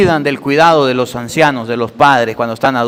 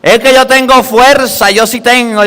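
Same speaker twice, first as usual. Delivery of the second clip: mock boasting child; 5 semitones higher than usual. Mocking boastful adult child.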